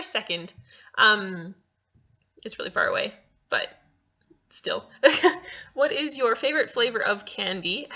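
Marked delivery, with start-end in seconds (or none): 5.7-7.9 slip towards British. Pretend. Vlogger reading a fan question, almost in a British accent. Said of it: "I almost whipped out the British again".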